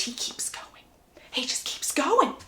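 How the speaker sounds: unvoiced dramatic whisper. Real, not acted. Narrating Edward's push to viewers in a whisper. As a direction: lean in and whisper it.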